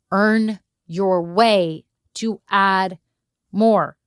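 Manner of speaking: each word slowed and leaned on; slow, emphatic repeat. Shown as a demonstration. Coach repeating the key advice to listeners, slow and emphatic. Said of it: "and then you can earn your way".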